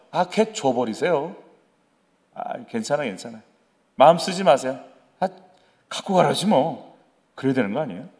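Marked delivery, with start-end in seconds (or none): 0.1-7.0 대수롭지 않은 듯 작게 툭; 별일 아니라는 듯 힘 빼고 넘기기; 무심한 양보. Acted. 무심하게 양보하는 에서를 연기. (시큰둥하게)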